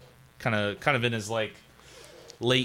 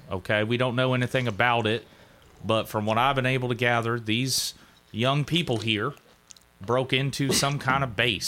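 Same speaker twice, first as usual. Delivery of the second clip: Doug's voice. Acted. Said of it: "Doug's gonna be like".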